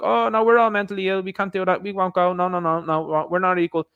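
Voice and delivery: hammed-up excuses, repeated no's; mock panicked protest. Women when a war kicks off, mock panicked refusal. Mimics women backing out of battle.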